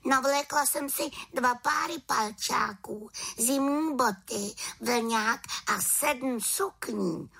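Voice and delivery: near-tearful complaint; whiny witch. Acted. Witch whines to raven about her clothes.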